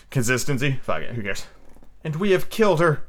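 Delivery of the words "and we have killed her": hoarse. Acted. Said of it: "Nib said hoarsely".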